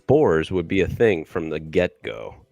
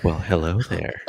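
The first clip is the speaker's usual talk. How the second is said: ASMR voice. Pretend. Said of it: "that A S M R voice is hot".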